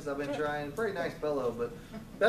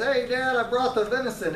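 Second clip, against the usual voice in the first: louder and higher, a brash hothead; 6 semitones higher, 4 dB louder than usual. Retold or imitated. Esau the hothead storming back to his dad, brash and loud. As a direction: burst in pushy and loud. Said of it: "Esau's kind of a hothead".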